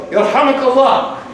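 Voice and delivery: convert's yell. Retold or imitated. Excited new convert yelling Yarhamakallah in prayer, loud and slow. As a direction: call out Yarhamakallah slowly and loud. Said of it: "He yells".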